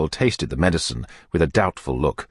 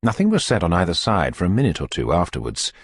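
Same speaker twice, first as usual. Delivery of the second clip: usual speaking voice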